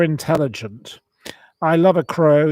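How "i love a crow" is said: louder, eager love for crows; loud fond declaration; gushing. Real, not acted.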